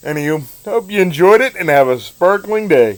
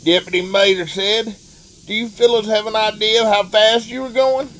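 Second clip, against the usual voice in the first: terrible Larry the Cable Guy. Acted. Reading Deputy Mater aloud to listeners, in a hammed-up redneck Southern accent. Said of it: "that was me doing a terrible Larry the Cable Guy impersonation".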